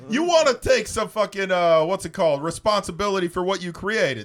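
put-on tough-guy Italian accent. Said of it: "I'm doing an Italian accent".

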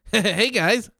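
high, stiff robotic greeting; animatronic voice. Pretend. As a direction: greet them like a talking cardboard cutout. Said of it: "Like an animatronic voice".

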